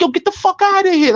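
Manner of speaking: pitched far up, astonished denial; incredulous yelp. Retold or imitated. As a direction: squeal it out in total disbelief. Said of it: "I'm like".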